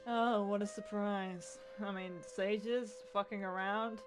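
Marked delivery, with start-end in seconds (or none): 0.1-1.6 slow, dragged-out deadpan sarcasm; sarcastic. Real, not acted. Reacting to news of corrupt sages, slow sarcastic drawl. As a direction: drawl it like nobody's shocked.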